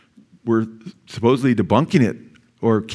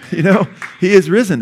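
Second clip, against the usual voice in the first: excited proclamation; 6 semitones higher, 3 dB louder than usual. Real, not acted. Preacher repeats climactic proclamation.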